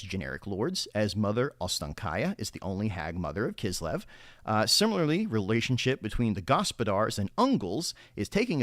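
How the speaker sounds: reading it like a newscaster; polished TV news read; news anchor voice. Shown as a demonstration. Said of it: "use my news anchor voice while doing it".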